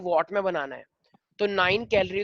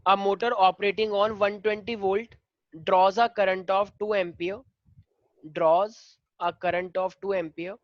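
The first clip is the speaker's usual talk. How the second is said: slow, measured read-aloud dictation; question dictation; much slower than usual. Real, not acted. Teacher reading a motor problem to students, slow dictation. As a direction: read it out slowly, phrase by phrase.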